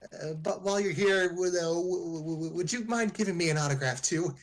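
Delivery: high, nervous starstruck stutter; stammer, starstruck and flustered. Acted. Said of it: "She just stuttered".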